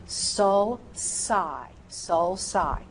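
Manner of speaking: "sulci" as "sul-sigh"; soft C. Shown as a demonstration. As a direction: say "sulci" with an S in the middle. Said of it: "That's right".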